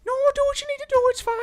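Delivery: high, loud apologetic Maritime voice; Nova Scotian accent. Retold or imitated. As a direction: insist politely, Nova Scotian style. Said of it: "This is my Nova Scotian bit".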